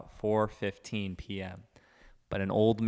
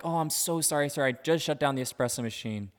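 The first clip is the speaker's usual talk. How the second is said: apologetic customer service voice; 4 semitones higher than usual. Retold or imitated. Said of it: "And I'm like".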